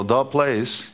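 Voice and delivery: weight on "the", then "place"; stress on THE. Shown as a demonstration. Preacher repeating the verse's phrase, stress on "the". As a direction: point up the definite article "the". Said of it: "with a definite article".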